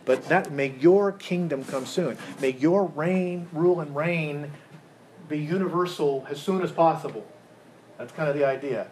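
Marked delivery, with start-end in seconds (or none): 0.5-7.2 YOUR held long in each slow phrase; stress on YOUR. Shown as a demonstration. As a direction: lean deliberately on every "your". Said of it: "Whose agenda are we focused on".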